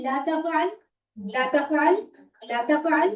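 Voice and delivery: तफ़अल said slowly and clearly; teacher models ला तफ़अल for repeating; model pronunciation. Shown as a demonstration. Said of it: "तो हम कहते हैं". (शिक्षक का उच्चारण नमूना)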